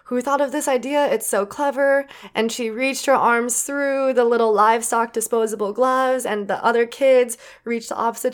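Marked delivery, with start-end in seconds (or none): 0.0-2.1 higher-pitched, lightly voiced delighted Nana; imitated great-grandma. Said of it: "was just like".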